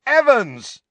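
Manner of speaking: loud, very high, stretched call; shouting after her. A narrator's reading. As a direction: holler to stop someone leaving. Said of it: "James shouted after her".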